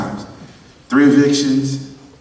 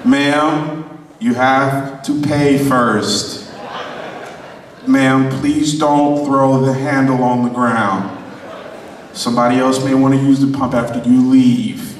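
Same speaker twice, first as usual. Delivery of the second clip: polite attendant voice; 3 semitones lower, slower than usual. Retold or imitated. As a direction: patiently talk down a gas station customer. Imitating his gas station attendant self.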